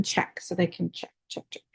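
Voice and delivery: breathless, trailing off; running out of air mid-sentence; out of breath. Real, not acted. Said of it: "I'm, like, out of breath".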